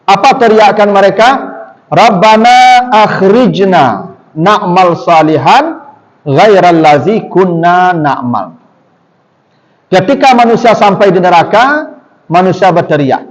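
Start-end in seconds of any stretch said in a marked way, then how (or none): 1.9-8.6 slow, drawn-out Quranic chant; Quran recitation. Acted. Preacher recites the plea of hell's people, slow chant. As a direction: intone the verse slowly and solemnly.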